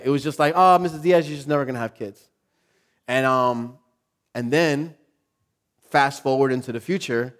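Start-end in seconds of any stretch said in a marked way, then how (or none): 0.6-2.3 offhand, breezy verdict, imitated; mild mock of an uncaring doctor; careless doctor. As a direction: drop the bad news lightly like weather talk. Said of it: "That's, that's how he said it".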